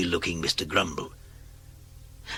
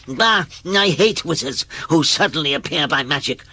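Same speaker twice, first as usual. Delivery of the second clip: put-on a grumpy old grouch, louder burst on Bah; grumpy grumbler; 5 semitones higher, 4 dB louder than usual. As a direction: grumble it like a cranky old man. Grumpy Mister Grumble speaking.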